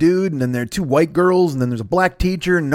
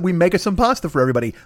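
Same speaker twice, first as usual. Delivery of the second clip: mock Italian accent; faster than usual. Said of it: "I said".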